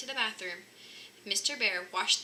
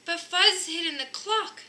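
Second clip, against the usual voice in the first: higher, louder little cub voice; a cub telling on his brother; cub's little voice; 8 semitones higher, 8 dB louder than usual. A narrator's reading. Cub voice explaining.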